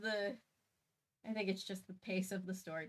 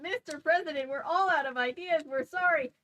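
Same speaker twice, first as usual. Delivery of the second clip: higher, meek apologetic voice; meek vice president; 8 semitones higher, 7 dB louder than usual. Acted. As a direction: apologize meekly and nervously. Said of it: "the vice president meekly says".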